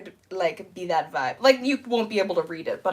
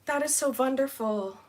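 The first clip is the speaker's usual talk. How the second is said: higher-pitched mock Dracula accent; 5 semitones higher than usual. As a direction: slip into a playful Dracula accent. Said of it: "I turned into Dracula".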